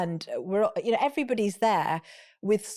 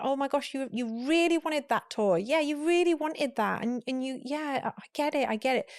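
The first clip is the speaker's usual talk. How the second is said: a higher, soothing voice; gently validating, higher; validating parent; 5 semitones higher than usual. Shown as a demonstration. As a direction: comfort a child who wants the toy. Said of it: "validate how they're feeling".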